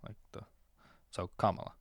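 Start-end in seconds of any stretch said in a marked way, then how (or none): 1.4-1.7 Kamala as COMMA-la; correct pronunciation. Shown as a demonstration. Host summing up the guide, Kamala said COMMA-la.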